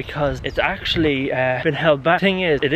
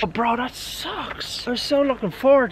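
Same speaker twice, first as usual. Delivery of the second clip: whiny disappointment; 10 semitones higher than usual. Acted. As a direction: drag out the letdown. Mock disappointment.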